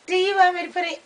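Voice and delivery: high-pitched imitation Australian; teasing Australian impersonation, pitched high; mock Australian accent. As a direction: playfully put on an Australian accent. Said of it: "it's Australian".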